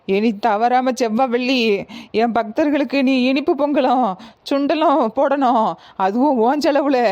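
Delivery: possessed goddess. Acted. Goddess gives orders.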